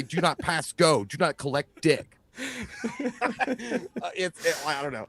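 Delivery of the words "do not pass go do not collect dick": slow game announcement. Retold or imitated. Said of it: "And I'm gonna say".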